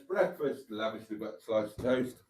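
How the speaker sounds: whispered aside. Real, not acted. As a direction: whisper it behind your hand. Aside about breakfast.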